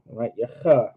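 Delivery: "cha" with a scraping throat sound; "cha" scratched from the back of the throat; throaty cha. Shown as a demonstration. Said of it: "scratching the back of your throat".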